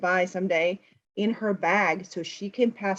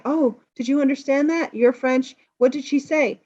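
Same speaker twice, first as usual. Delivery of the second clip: curious nervous question; 5 semitones higher than usual. Retold or imitated. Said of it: "she says to this guy".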